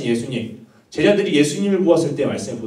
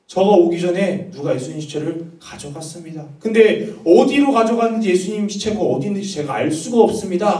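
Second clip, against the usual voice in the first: higher-pitched retold plea, without real sobs; mildly acted desperate appeal; earnest tearful plea; 5 semitones higher, 3 dB louder than usual. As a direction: imitate a distraught woman pleading. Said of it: "간절한 마음으로".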